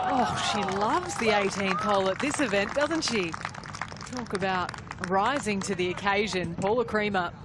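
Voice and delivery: golf commentator. Real, not acted.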